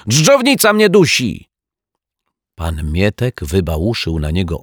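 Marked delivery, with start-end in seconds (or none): 0.1-1.5 high, loud alarmed scream; shriek. A narrator's reading. Detective claims a worm is choking him, shrieking. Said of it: "wrzasnął detektyw Pozytywka".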